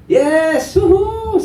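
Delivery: very high whoop; acted burst of triumph; celebrating crowd. Crowd after the walker crosses, high excited whooping.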